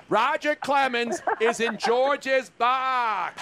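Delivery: slowly, every word spelled out; slow emphatic correction. Pretend. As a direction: lay out each word deliberately. Mock correction, drawn out.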